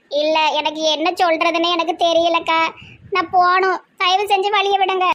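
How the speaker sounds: upset, on the edge of tears; tearful pleading. Acted. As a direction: plead tearfully to be let past. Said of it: "இப்படி அழுதுட்டு நிக்கிற". (அழுகை கலந்த கெஞ்சல்)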